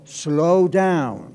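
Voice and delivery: long, easy vowels, putting on the brakes; drawn-out slow down. Acted. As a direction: stretch both words out. Cuerpo que pide ir despacio. (alargado, frenando despacio)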